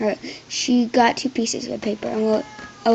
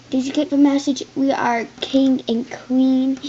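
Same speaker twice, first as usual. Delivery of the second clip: snarl; 3 semitones higher, 4 dB louder than usual. Acted. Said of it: "Harold snarled".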